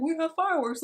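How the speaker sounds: put-on high and loud, kids egging each other on; excited kid shout. Bratty kids shouting to each other about fireworks, gleeful loud shout. Kids plan to attack old man.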